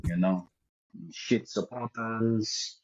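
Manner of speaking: put-on Leeds accent slipping in. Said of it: "heard more comfort coming from the Leeds accent".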